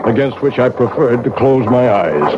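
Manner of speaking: measured, somber radio narration; story narration. A narrator's reading. Clockmaker narrating his confession over music, somber. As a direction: tell the confession gravely, like a memory.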